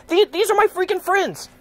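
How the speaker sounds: protesting the merch of his friends; indignant protest fading. Retold or imitated. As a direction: defend your friends, then run out of steam. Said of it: "I'm like".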